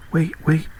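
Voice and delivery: calling out. A narrator's reading. Frog calls after the princess as she runs off, calling out. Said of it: "called the frog".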